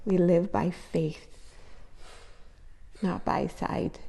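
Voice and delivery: hushed slow reading of the verse. Real, not acted. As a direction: read it in awe, barely aloud. Reading the verse aloud, moved.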